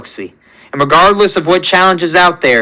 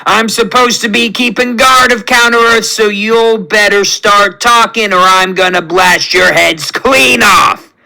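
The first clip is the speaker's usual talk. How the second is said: angry threat; 4 semitones higher than usual. Acted. Raccoon threatens captives at gunpoint.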